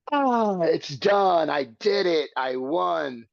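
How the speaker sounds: imagined sigh of triumph, easing back to normal pitch; acted blissful relief. Man imagining finally having won, acted relief.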